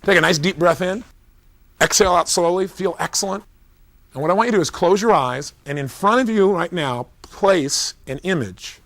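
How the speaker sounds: calm, measured coaching voice; guided visualization. Shown as a demonstration. Coach guiding the audience through a swish pattern, calm and measured.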